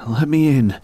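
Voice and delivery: high, loud voice through an intercom; muffled phone voice. Acted. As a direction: call in as if through a door speaker. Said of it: "I could hear a muffled voice".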